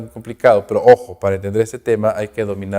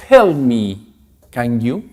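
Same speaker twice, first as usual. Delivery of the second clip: friendly request; much slower than usual. Shown as a demonstration. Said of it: "Quiet friendly, algo amigable".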